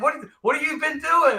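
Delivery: very high-pitched incredulous question; mock disbelief, voice way up; retold astonishment. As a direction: play back your amazed question.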